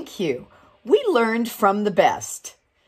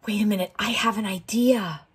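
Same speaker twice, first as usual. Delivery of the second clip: sudden idea; faster than usual. Acted.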